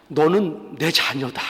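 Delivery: low, slow, grave reminder; slow and low, quietly firm; gentle rebuke. Acted. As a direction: reprove by calmly affirming, unhurried. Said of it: "이게 꾸짖으시는 거라니까요".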